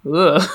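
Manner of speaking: loud "ugh" of admiration; appreciative groan. Real, not acted. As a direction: groan as if overwhelmed by it. Overwhelmed by admiration for the book.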